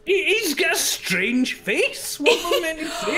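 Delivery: high, slow laughing protest. Real, not acted. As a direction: laugh through the words. Laughing while mocking a face.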